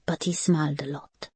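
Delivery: put-on breathy whispered child line. A narrator's reading. Little boy to his aunt, whispering softly. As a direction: let it fade to a whisper.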